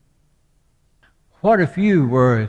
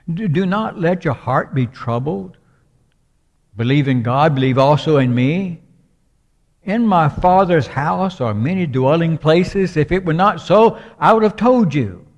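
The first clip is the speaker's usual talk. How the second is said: higher and louder, swelling cadence; preaching at full force; 4 semitones higher, 4 dB louder than usual. Acted. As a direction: proclaim it from the pulpit. Preacher quotes John fourteen fervently.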